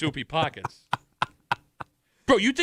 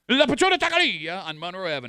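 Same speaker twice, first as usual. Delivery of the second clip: mock Spanish accent; 2 semitones higher, 3 dB louder than usual. Shown as a demonstration. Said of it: "I don't know what accent that is".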